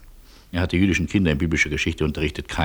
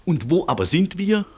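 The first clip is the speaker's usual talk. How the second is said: exasperated scolding; 5 semitones higher than usual. Acted. Keeps scolding the lost colonel.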